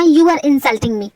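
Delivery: drawn out very slowly, each word stretched; mock offended. Friend complaining he is being insulted, slow and sulky. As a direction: sulk it out slowly.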